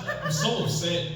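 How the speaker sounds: slow, drawn-out mock misery; mock upset, slow. Comedian hamming up his anger at the pharmacist. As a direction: drag it out, pretending to be angry.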